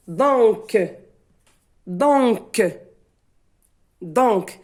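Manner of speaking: DONC with the final C released as a clear K; teacher's careful "donc", final C heard as K; sounded final K. Shown as a demonstration. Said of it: "C se prononce K".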